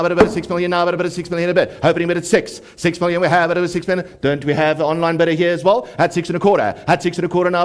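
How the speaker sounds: rapid rolling auction chant; auctioneer. Real, not acted. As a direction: rattle off bids in a fast patter.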